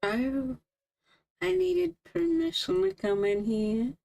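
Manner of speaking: joking. Acted. Man invited to visit again, joking about needing permission. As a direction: tease with a mock question. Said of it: "trying to be joking about it".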